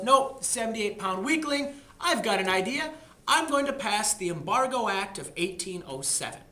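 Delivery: a president deciding after checking his muscles; Jefferson voiced.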